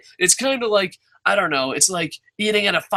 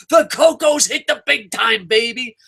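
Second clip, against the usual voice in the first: put-on kid's excited cheer; 5 semitones higher than usual. As a kid celebrating the Pizza Hut trip, a high triumphant cheer. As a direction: crow it like a kid who made it big.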